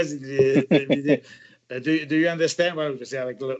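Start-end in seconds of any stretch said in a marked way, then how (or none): 1.7-2.7 a mock British accent on do you understand, a tutor checking on a foreign actor; the director asks the French actor in a lightly imitated British accent. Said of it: "le British accent".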